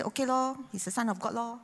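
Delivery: casually dismissive, as if it's nothing special; offhand shrug. Retold or imitated. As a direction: toss it off like a bored kid reading a verse. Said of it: "I say".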